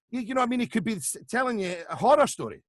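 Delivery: high voice bubbling with suppressed laughter; Terry Gilliam. Retold or imitated. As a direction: imitate someone about to crack up. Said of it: "he always sounded like he was".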